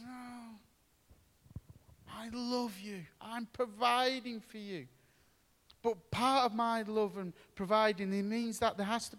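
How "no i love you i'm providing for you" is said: gentle God. Retold or imitated. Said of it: "And God says".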